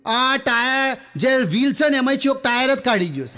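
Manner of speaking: high mock shout about the missing tyre. Friend calling up from the tracks, hammed-up shout. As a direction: yell it up to friends on the train. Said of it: "મોટેથી બૂમો પાડવા મળ્યો".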